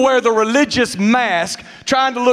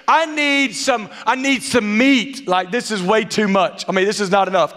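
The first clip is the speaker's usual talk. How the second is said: snobby churchgoer; 4 semitones higher than usual. Retold or imitated. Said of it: "a lot of you think".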